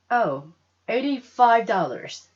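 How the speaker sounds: saleswoman. Acted. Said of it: "she said".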